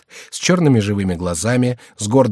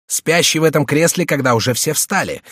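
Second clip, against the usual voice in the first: put-on raised, impatient young monk's voice; impatient, barely respectful; 6 semitones higher than usual. A narrator's reading. Young monk to the treasurer about their sleeping superior, impatient. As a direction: push it out higher, more impatient than respectful. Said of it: "голосом более нетерпеливым, чем почтительным".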